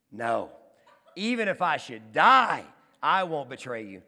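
loud, slow acted vow, DIE booming; defiant insistence. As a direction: insist like a bragging disciple, hammering DIE. Peter insists after Jesus's warning.

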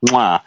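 chef's kiss sound. Retold or imitated. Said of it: "I do the little chef kiss".

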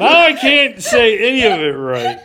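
loud, high wail through laughter; helpless laughing. Real, not acted. Host who botched a name to co-hosts, laughing helplessly. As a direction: crack up while protesting at full volume.

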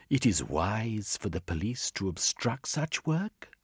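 a hint of an earnest foreign woman; lightly voiced Valentina. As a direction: plead calmly but firmly. Valentina pleads with policeman.

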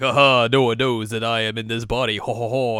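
hammed-up scheming villain with "ho ho" laugh; mock villain gloat. Villain secretly hiding in another's body, mock gloating.

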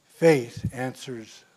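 slow, measured recital; solemn poem read from the pulpit; poem recitation. Acted. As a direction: recite each line slowly, like a solemn verse.

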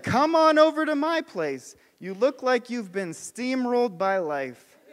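mildly hammed-up casual invitation, "chillax" stretched; casual modern Jesus. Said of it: "like Eugene Peterson on steroids".

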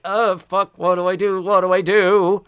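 high, loud panicky squeal; flustered girl who doesn't know what to do; panicked girl. Pretend. Girl in a bind, panicky and loud.

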